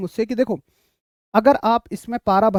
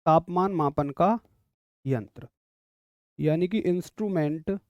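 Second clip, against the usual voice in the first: softer, stretched words with long pauses; slow dictation; 3 semitones lower, 4 dB quieter, much slower than usual. Real, not acted. Teacher dictating the thermometer definition, slow dictation. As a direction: spell out the note unhurriedly, phrase by phrase.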